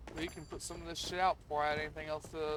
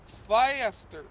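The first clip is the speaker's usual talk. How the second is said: louder, high shouted order; mock command; 6 semitones higher, 8 dB louder than usual. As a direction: shout it out, pushing harder. Bossing a game worker around.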